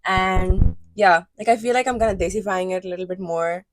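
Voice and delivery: demonstrating a Pakistani accent. Shown as a demonstration. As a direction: talk in a natural Pakistani English accent. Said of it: "this is how I talk when I talk in my Pakistani accent".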